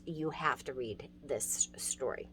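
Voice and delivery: soft urgent whisper. Real, not acted. Teacher urging ninja lovers to read, whispered. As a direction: whisper it like a must-do secret.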